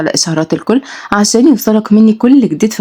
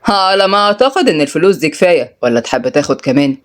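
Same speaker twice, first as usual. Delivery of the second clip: a touch of arrogance; haughty, mildly dismissive offer; arrogant. Acted. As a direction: say it with lofty condescension. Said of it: "وهو بيقول بغرور".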